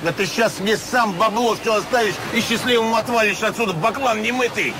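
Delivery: menacing thug. Acted. Con man threatens doubting client.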